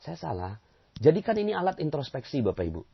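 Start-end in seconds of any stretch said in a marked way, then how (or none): 0.0-0.5 quiet acceptance. Acted. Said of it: "ya kita bilang".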